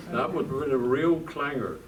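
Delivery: laughing through the words, real amusement. Real, not acted. Laughing at own story.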